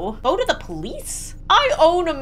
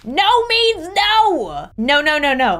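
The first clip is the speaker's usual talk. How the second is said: drawn-out, high and louder insistence; firm refusal; 4 semitones higher, 3 dB louder, slower than usual. Acted. Woman refusing her ex at the door, slow loud insistence. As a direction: stretch out each no like a final word.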